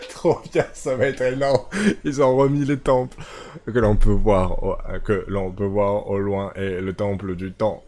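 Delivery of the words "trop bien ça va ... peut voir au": louder, higher, thrilled "ils ont remis les temples"; excited shout. Real, not acted. Temples are back, thrilled.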